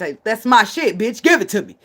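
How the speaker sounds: a hint of angry owner claiming his stuff; mock angry demand. Reenacting a clash with clerks, angry demand. Retold fight over his property.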